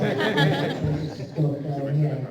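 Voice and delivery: slow, loud, laughing; laughing into mic. Real, not acted. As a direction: laugh through the words. Playing with the microphone.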